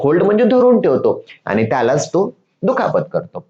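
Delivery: usual speaking voice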